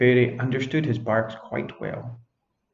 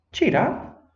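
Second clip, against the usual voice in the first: cheerful fairy. Acted.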